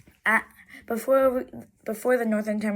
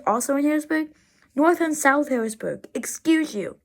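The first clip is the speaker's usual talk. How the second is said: real exasperated complaint; frustrated; 3 semitones higher than usual. Real, not acted. Road-trip narrator scolding the Harrisburg exit signs, frustrated. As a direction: object with indignant frustration. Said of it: "I'm frustrated".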